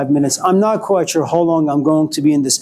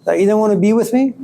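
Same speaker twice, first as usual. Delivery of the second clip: pleading lover; 5 semitones higher than usual. Retold or imitated. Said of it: "Then you call them and say".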